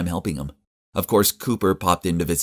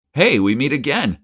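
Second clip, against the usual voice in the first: calls across the entrance, a touch louder and higher; calling out; 8 semitones higher, 5 dB louder than usual. A narrator's reading. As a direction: call out to catch his attention. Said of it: "I called out".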